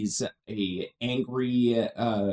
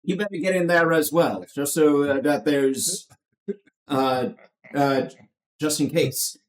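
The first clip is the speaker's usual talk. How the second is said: Kirk Douglas impression; 3 dB louder than usual. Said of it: "that was a horrible Kirk Douglas, uh, impersonation".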